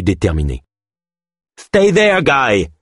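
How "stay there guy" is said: very high, loud threatening command; menacing. A narrator's reading. Thug warns Ganesh off, menacing snarl. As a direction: spit the order as a threat. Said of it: "d'une voix menaçante".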